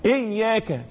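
إياك with a held double y; geminated ي and short final ka in إياك; doubled yaa. Shown as a demonstration. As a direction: press on the ي of إياك. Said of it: "الحرف المشدد حرفين".

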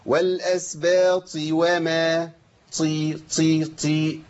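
والأسباط with a firm ta, no breath escaping; correct ta. Shown as a demonstration. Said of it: "اسمعوا كده في الوصل". (الطاء بلا همس)

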